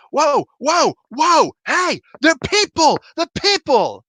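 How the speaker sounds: high-pitched warning yell, reenacted; urgent yelling. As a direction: call out in alarm to stop them. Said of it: "I'm trying to yell at him".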